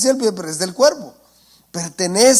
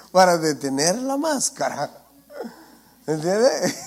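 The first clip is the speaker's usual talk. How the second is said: laughing. Real, not acted. Jokes about ears holding masks.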